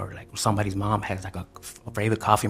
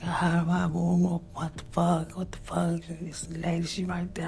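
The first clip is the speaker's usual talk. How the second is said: much higher, hushed panicked disbelief; panicked screaming; 9 semitones higher, slower than usual. Retold or imitated. Girlfriend seeing the shot nurse, high panicked disbelief. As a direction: shriek it in horror, half-whispered. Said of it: "She's like".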